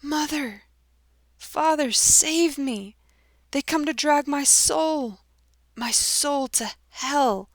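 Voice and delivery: put-on dying young man shrieking to his parents in terror; unearthly shriek. A narrator's reading. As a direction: shriek in an unearthly voice as devils drag you. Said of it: "with an unearthly voice he shrieked".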